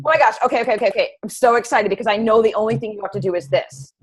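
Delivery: a touch of bubbly overeager coach; mock-gush like an overeager coach; gushing excitement. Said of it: "if I was excited about changing something".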